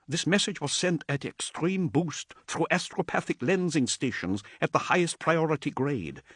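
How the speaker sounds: lightly voiced nervous adept. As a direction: introduce yourself with nervous awe.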